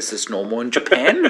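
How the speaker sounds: bewildered question through a laugh; baffled, half-laughing aside; amused bewilderment. Retold or imitated. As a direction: ask it incredulously, laughing as you retell it. Bewildered aside to pastor, retold.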